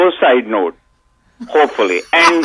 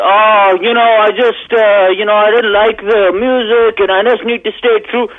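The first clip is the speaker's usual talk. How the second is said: higher, mocking imitation of the guest; mocking whiny fisherman; 5 semitones higher than usual. Caller mocking the lobster fisherman, higher mock whine. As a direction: sneer out a mock whine in his voice.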